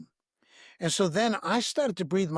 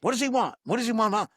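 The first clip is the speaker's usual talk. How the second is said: eager devotee; 4 semitones higher, faster than usual. Retold or imitated. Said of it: "He pulled me into the house".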